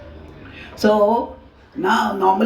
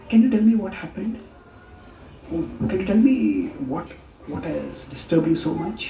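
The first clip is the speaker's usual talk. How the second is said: gentle concern. Retold or imitated. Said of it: "We say".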